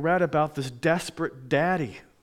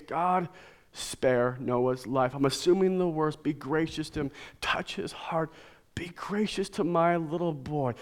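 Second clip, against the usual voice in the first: quiet prayer; 3 semitones lower, 5 dB quieter than usual. Retold or imitated. Father's prayer for his son.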